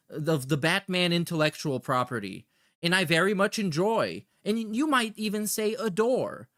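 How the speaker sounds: lightly voiced sycophantic chatter; a hint of an overeager superfan; mock fawning fan. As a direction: read it like a gushing fan letter. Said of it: "I love the paraphrasing too".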